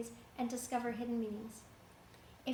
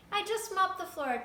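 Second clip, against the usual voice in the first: indignant shout; 7 semitones higher, 5 dB louder than usual. A narrator's reading. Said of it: "shouted at Beryl and Fievel".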